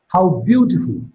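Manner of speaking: "beautiful" peaks, then drops in pitch; falling tone on beautiful. Shown as a demonstration. Teacher demonstrating an exclamation for students, falling tone on "beautiful". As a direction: let the voice fall through "beautiful". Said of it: "Beautiful is marked with a falling tone".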